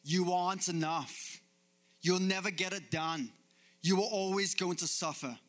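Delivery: the devil yelling lies at us; mock devil yell. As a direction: yell it like the accuser. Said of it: "he yells at us".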